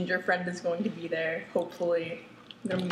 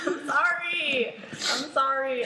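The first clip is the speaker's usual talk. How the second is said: laughing apology; 5 semitones higher, slower than usual. Real, not acted. Laughs while apologizing for being late.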